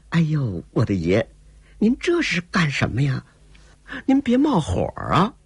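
put-on high, pleading young woman calming her man; coaxing courtesan. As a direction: soothe him before he flares up. Courtesan soothing an angry lover.

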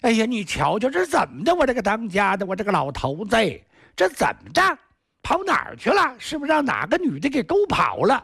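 尖高的妇人哭腔，连声叫唤; 丈夫不见了，又急又哭地数落. A narrator's reading. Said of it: "这个哭啊". (媳妇找不见当家的，尖声哭诉)

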